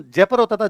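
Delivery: जयपुर as "JAY-pər", short second vowel; old local pronunciation. Shown as a demonstration. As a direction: say जयपुर the village way, "jepər". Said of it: "अंग्रेजों के आने से पहले हम इसको जयपुर".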